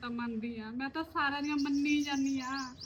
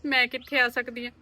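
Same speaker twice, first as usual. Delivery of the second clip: fearful pleading; 8 dB louder than usual. Acted. Scared wife fears husband finding out.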